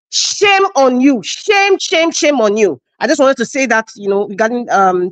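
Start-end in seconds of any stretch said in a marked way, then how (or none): 0.1-2.8 slow, drawn-out cries of shame; scolding. Real, not acted. Scolding the Nigerian judiciary for its weakness, slow and reproachful. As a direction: draw out each SHAME in rebuke.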